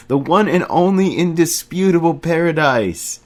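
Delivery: high, loud ecstatic proclamation; exulting Remy. A narrator's reading. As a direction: proclaim it like a triumph.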